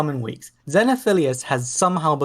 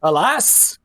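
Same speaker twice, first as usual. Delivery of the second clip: dramatic lament; 3 semitones higher than usual. Acted. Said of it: "And as he says, "Alas".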